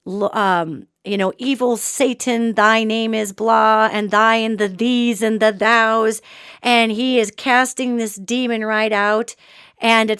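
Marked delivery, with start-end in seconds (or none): 1.4-6.2 lightly voiced Puritan preacher on a monotone; Puritan exorcist. Preacher casts out the demon, lightly voiced Puritan exorcist. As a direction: intone it evenly, a hint of old-time exorcism. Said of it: "he goes into his Puritan-based, weird".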